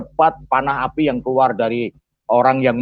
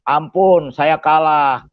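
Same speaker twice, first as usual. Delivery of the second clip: mock plea for mercy, slightly raised voice; acted pleading; 2 semitones higher, slower than usual. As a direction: imitate a beaten man begging, lightly pressed. Acted begging of beaten opponent. (menirukan orang memohon ampun)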